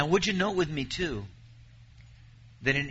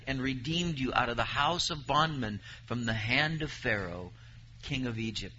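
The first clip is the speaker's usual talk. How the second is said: measured, solemn reading of the verse; scripture reading. Acted. Preacher reading Deuteronomy to his congregation, solemn. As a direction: read the promise out to the congregation.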